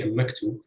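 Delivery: a MAKtub, stress after the article; stress on second syllable. Shown as a demonstration. Lecturer showing two heavy syllables, a maktub stressed on the second. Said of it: "stress would fall on the".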